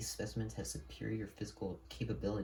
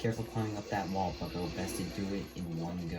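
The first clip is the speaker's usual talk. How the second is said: spy voice; 3 dB louder than usual. Acted. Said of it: "spy voice".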